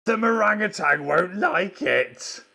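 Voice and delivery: high, loud, slow storybook voice; excited warning. Acted. Punchline of a children's book read aloud.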